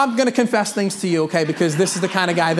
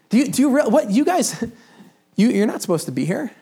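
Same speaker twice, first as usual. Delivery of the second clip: higher, sputtering disbelief with a laugh; lightly played Peter baffled by visitors; flustered Peter; 4 semitones higher than usual. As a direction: stammer out shocked surprise at the door. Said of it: "He's like".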